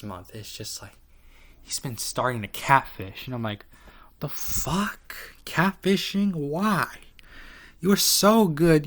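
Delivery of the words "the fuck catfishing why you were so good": high, loud mock outrage at a sellout; outraged disbelief. Ranting at Fang for catfishing, high outraged disbelief. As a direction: shriek it in betrayed disbelief.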